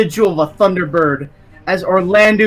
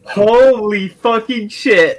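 drawn-out, higher swearing in disbelief; stunned exclamation; 4 semitones higher, 4 dB louder, slower than usual. Real, not acted. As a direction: stretch the first word in shock. Player reacts to a close roll.

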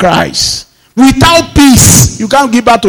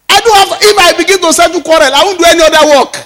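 exasperated; 7 semitones higher, faster than usual. Retold or imitated. Retells refusing to settle quarrels.

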